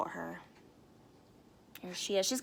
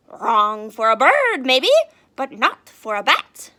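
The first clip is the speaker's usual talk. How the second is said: patient bat; 3 semitones higher, 13 dB louder than usual. Acted.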